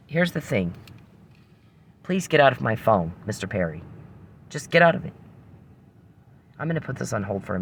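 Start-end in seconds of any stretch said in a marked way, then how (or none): 2.0-5.1 fed up and ordering him out; angry demand. Real, not acted. Woman ordering the man hacking her phone to get out, angrily.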